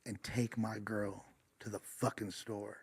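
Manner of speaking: mock drunk tough guy. Drunk boyfriend sneering at the LA guy, slow mock bully voice. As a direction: drag it out like a sloppy drunk bully. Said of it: "this guy says".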